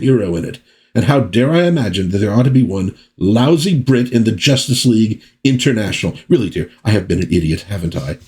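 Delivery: a hint of an exasperated Basil Fawlty, lightly voiced; lightly sarcastic huffy Englishman, not far from own voice. Embassy liaison sarcastically answering his wife, lightly voiced huff. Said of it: "very much like Basil Fawlty".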